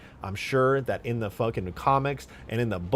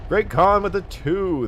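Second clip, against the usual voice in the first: slow, much louder, higher alien announcement; Halo alien voice; 9 semitones higher, 8 dB louder than usual. Acted. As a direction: boom it out like an Elite addressing the Arbiter. Thanks a donor in game voice.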